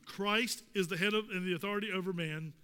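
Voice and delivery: ordinary talk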